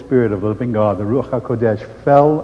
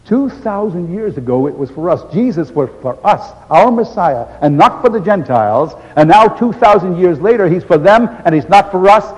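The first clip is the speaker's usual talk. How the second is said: building higher and louder; bewildered protest; 5 semitones higher, 5 dB louder than usual. Acted. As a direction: climb toward disbelief. His own bewildered protest.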